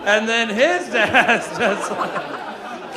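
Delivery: "his" stretched very long; drawn-out stress on HIS. Real, not acted. Comic going back another generation of dads, "his" slowly stretched. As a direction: drag out "his" with a swooping pitch. Running bit, escalating lead-in.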